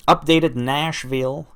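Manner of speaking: a deliberately bad, slowed Southern twang on Nashville; terrible Southern accent. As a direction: ham up a lousy Southern accent, not meant to be good. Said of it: "That was a terrible accent".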